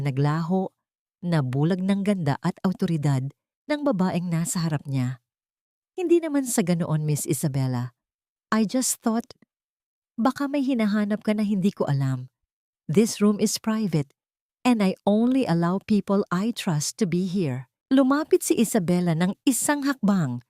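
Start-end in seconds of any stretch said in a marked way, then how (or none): 5.9-17.7 lightly voiced man, a touch higher and guarded; a hint of a defensive host, slowing on private. Marco defensive to Isabela.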